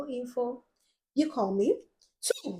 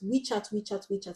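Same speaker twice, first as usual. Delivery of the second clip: repeated softly; 5 dB quieter than usual. Shown as a demonstration. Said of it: "I'll say that in your head".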